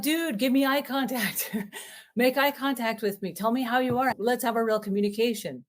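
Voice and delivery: high, exasperated demand with a laugh; frustrated plea. Retold or imitated. Parent pleading with phone-glued kid, high and exasperated. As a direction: beg them to look at you, high and fed up. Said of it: "And you're like".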